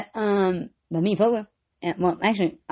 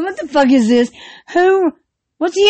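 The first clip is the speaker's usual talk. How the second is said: loud; 4 semitones higher, 6 dB louder than usual. Retold or imitated. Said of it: "I'm like".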